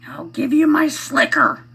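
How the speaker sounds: high, loud imitated movie line; hammed-up character offer. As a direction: son doing a movie voice. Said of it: "he goes like this".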